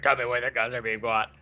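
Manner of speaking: fake deep voice. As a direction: growl it like a masked hero. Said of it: "does the fake deep voice".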